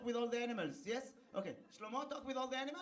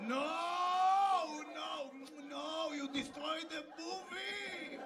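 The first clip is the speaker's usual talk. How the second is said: laughing mock protest; 3 semitones higher, 4 dB louder, much slower than usual. Real, not acted. Laughing protest at spoiled joke.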